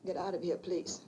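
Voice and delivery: low, hushed, desperate; frightened whisper. Acted. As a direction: whisper urgently, afraid of him. Terrified, sending the killer away.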